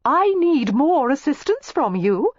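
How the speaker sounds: high, slow flirty sing-song; coy call. A narrator's reading. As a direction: coax him to moo again. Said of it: "Miss Layton called".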